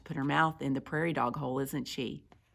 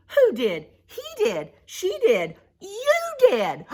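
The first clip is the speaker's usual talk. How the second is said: high, squeaky-pitched finger-pointing; accusing; 8 dB louder than usual. Acted. Prairie dogs blaming each other for theft, accusing. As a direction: throw the blame around loudly.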